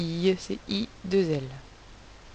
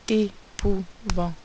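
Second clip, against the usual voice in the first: slow syllables; slower than usual. Shown as a demonstration. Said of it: "quatre syllabes".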